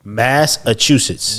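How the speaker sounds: Massachusetts drawn out slowly, syllable by syllable; slow careful Massachusetts. Shown as a demonstration. Coaching his friend through the state name, slow. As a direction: model Massachusetts again, very slowly. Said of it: "I don't know how to say that state".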